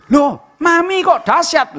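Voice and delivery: high, slow, drawn-out amazement; stretched-out awed cry; amazed exclamation. Retold or imitated. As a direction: marvel at it like the astonished doctor. Doctor amazed at recovery.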